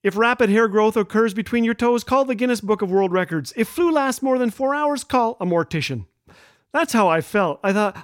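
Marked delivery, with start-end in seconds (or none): 0.0-6.0 lightly mock product disclaimer; a touch of advert small print; warning label read-out. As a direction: read it like a list of official warnings, slightly higher. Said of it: "should have come with a warning".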